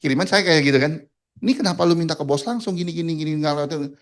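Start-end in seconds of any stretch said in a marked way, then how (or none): 1.4-3.9 mildly angry retold telling-off; a touch louder, imitating a scolding. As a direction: tick someone off in a quick retelling. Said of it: "Dimaki-maki lagi".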